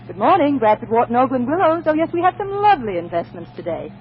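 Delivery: a lightly done sweet receptionist greeting; soothing telephone voice. Shown as a demonstration. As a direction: answer the phone as sweetly as you can. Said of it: "I have a very soothing telephone voice".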